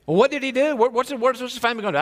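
high, urgent wife voice; worried wife. Acted. Wife pressing her husband for details, high and urgent. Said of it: "when they give you the details of their day, m-, wives".

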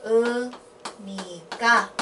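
very slow, drawn-out "Unica"; sílaba por sílaba. Shown as a demonstration. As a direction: stretch each syllable of "Unica" with small gaps. Teacher spells the form out by syllable.

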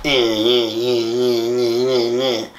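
low droning "eh, eh" mimicry; mock someone refusing to listen, low and monotone; repeated low grunted "eh"; imitated stubborn "eh eh". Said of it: "doesn't wanna fucking listen".

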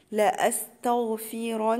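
لأستغفرن with a thick, full-mouthed ra; heavy ra. Shown as a demonstration. Teacher shows students the heavy ra in لأستغفرن. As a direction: recite لأستغفرن slowly with the ra heavy. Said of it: "الراء عندي هتبقى مفخمة".

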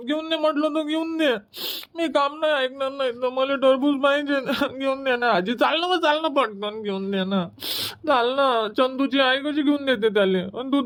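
put-on boy begging grandma for a watermelon; whiny pleading child. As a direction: wheedle like a spoiled kid.

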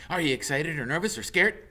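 high, eager squirrel chatter; squeaky excited squirrel voice; chatty squirrel. Acted. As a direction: pester him like a nosy little squirrel. Squirrel asks fast.

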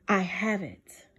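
unvoiced slow whisper; hushed slow reassurance. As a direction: breathe the promise softly. God's promise, whispered.

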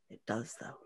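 soft, hushed and certain; whispered. A narrator's reading. Sixty insisting to the girl about the king, soft whisper. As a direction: whisper it like a secret belief. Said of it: "she whispered".

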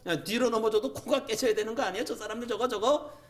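high-pitched, indignant acted complaint; aggrieved prophet protesting; arguing with God. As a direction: rattle off grievances as if demanding justice. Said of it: "예레미야가 하나님 앞에 그렇게 막 따지듯이 기도해요".

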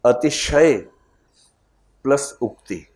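"अतिशय" then "उक्ति", each said apart with a pause; split into parts. Shown as a demonstration. Teacher breaking a word apart for the class, spelled out. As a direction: spell out "अतिशय" plus "उक्ति" as separate pieces. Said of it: "लेकिन बचपन से लोग रटते हैं अतिशयोक्ति".

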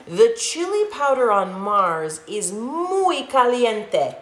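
slow, savoring pup voice; biggest pup. Acted. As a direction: drawl it out like a proud big dog. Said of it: "began Don Diego".

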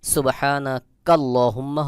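slow, linked সুবহানাকাল্লাহুম্মা, no break after কা; joined reading. Shown as a demonstration. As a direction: run সুবহানাকাল্লাহুম্মা together without stopping. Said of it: "আপনি মিলিয়ে পড়েন তাহলে". (সুবহানাকাল্লাহুম্মা মিলিয়ে পড়া)

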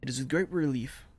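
measured letter read-aloud. Acted. Soldier writing to his Ma from Verdun, measured letter reading.

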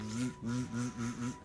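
"ず" as a humming th with tongue between teeth; voiced dental buzz on "ず". Shown as a demonstration. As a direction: buzz the th sound "ず" in short repeats. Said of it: "声を鳴らすことによって".

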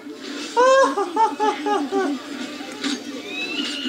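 very high giggle of disbelief; squeaky stunned laughter; high squealing laugh. Real, not acted. Laughing at the glitch.

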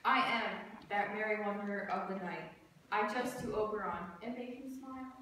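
measured, deliberate verse delivery; stage recitation. Acted. Student performing Puck's speech for class, measured recitation. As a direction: recite line by line, with short pauses.

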